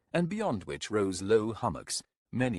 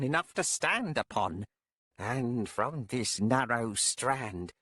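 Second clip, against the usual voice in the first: witch voice; 4 semitones higher than usual. Acted. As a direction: speak as a cold, proud witch.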